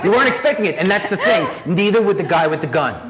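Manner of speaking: laughing through words; chuckling while explaining. Real, not acted. Laughing after the demo.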